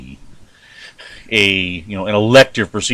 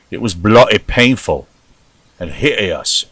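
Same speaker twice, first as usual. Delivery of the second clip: put-on British accent. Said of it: "this poor attempt at your, uh, vernacular".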